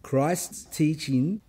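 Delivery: very slow, the words spaced out, rising on "teaching"; slow emphatic phrase. Shown as a demonstration. Preacher stating tonight's answer, slow and emphatic. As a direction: drag out "Christ's teaching" as the key point. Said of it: "that's the answer to the theme tonight".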